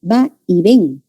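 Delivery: "Va y ven" slowly, syllable by syllable, landing on "ven"; stress on ven. Shown as a demonstration. Teacher showing students the tonic syllable, stress on "ven". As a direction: break up "Va y ven" to show the stressed "ven". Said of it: "la sílaba tónica es ven".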